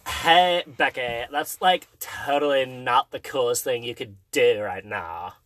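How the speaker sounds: lightly voiced valley girl; teenager voice. Shown as a demonstration. The best co-host could do, mild teenager voice. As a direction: attempt a valley teen put-down. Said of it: "teenager voice".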